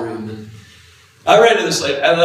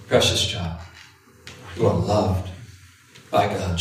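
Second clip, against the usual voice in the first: lower, softer, tender repetition; 5 semitones lower, 4 dB quieter than usual. Shown as a demonstration. Intercessor comforting a sobbing man, tender and soft. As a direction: say it gently like a blessing. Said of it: "She kept saying one phrase".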